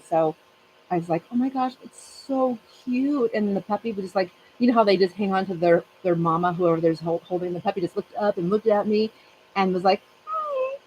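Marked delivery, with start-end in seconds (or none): 1.3-3.3 high, slow, cooing coo; puppy-struck coo, high and drawn out. Retold or imitated. 10.3-10.8 tiny, very high squeak of a greeting; be the puppy looking up at you; squeaky high puppy "hi". Retold or imitated. Voicing the puppy greeting her.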